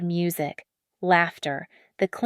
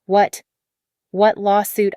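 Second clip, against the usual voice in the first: alarmed; 5 dB louder than usual. Acted. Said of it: "his voice alarmed".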